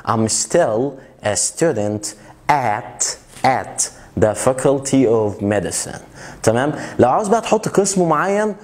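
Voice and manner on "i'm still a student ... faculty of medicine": slow model sentence. Shown as a demonstration. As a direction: say faculty of medicine slowly and clearly. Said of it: "لو أنت عاوز مثلًا تقول". (نطق بطيء وواضح للجملة)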